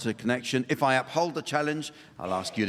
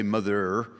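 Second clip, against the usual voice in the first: northern English "mother" with a hard final R; northern rhotic accent; 3 semitones lower than usual. Shown as a demonstration. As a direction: say "mother" the northern way, sounding the R at the end. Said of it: "a genuine northern accent involves the rhotic R".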